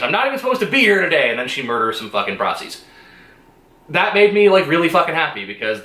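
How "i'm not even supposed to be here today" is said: retold scream. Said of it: "that character screams".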